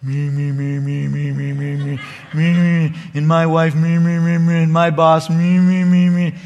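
a lightly mocking self-centred whine, repeating me; mild sing-song me-me-me mockery; mock whiny complaining. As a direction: imitate a complainer who only thinks of himself. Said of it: "that's just how we sound to the Lord when we complain".

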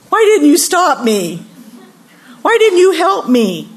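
high-pitched, accusing outcry; crying out. Acted. Believers blaming God when plans fail, crying out. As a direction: plead upward in mock anguish. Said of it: "We cry out to God".

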